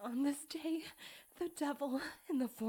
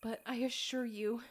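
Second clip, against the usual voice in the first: ordinary talk, nothing marked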